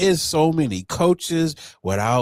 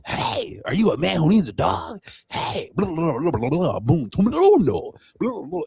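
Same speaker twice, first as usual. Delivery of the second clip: mock ad pitch; 4 semitones higher than usual. Mocks Instagram ad pitches.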